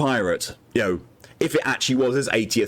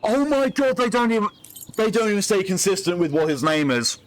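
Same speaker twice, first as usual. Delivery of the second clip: incredulous; 9 semitones higher than usual. Real, not acted. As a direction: exclaim in disbelief at the game. Reacting to inconsistent name.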